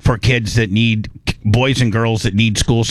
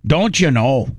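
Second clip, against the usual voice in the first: slow, higher "Yeah, hey there"; Canadian accent; 5 semitones higher, slower than usual. Pretend. Host showing how Canadians say hello. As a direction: draw it out friendly and Canadian. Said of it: "if you're Canadian".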